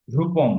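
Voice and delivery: রূপম with a clear long "ruu"; careful, lengthened first vowel in রূপম; clear articulation. Shown as a demonstration. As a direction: sound out রূপম distinctly, holding the u. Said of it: "স্পষ্ট করে উচ্চারণ করতে হবে".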